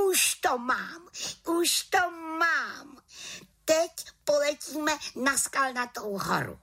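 she's just found the spell; delighted little witch. A narrator's reading.

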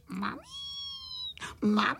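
thin, rising tearful wail; crying for mummy. A narrator's reading. Crickets bawling for their mum, tearful. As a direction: wail it out like a small crying child. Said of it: "zase brečeli na celé kolo a volali".

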